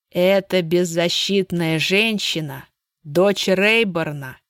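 slow, taunting and cold; slow sneer. Acted. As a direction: savour each word with cruelty. Sage sneers, slowly.

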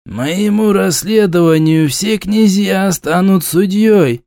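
snapping back. A narrator's reading. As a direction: snap back defiantly. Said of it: "огрызнулся Черниговский".

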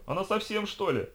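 very high-pitched incredulous squeal. A narrator's reading. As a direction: squeak it out in disbelief. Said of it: "взвизгнул мажор".

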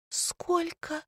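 high, very soft gasp of a question; breathless shock; stunned. A narrator's reading. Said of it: "чуть не упала Оля". (ошеломлённо, высоко и тихо)

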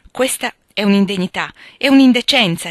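Joe bursts out in outrage; indignant exclamation. A narrator's reading. Joe hears the gossip about Meg and exclaims, indignant. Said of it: "esclamò Joe".

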